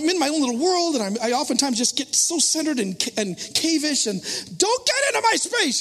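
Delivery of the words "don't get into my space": mock grumpy loner. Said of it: "I'm kind of that kind of guy".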